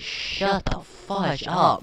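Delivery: slow, drawn-out fed-up shout; annoyed yell. Real, not acted. Gamer yelling at a noisy zombie, annoyed. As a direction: tell the zombie off again.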